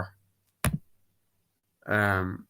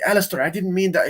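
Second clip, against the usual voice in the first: mock pleading apology; 8 semitones higher, 5 dB louder than usual. Father apologizing to son.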